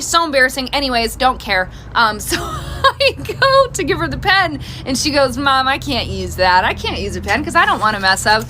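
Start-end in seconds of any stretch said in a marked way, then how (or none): 5.4-8.4 whiny daughter. Retold or imitated. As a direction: complain like a fussy kid. Voicing fussy daughter.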